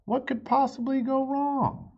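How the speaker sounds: high, innocent wondering; naive high voice. A narrator's reading. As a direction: ask it with wide-eyed innocence. Amelia's worried inner thought.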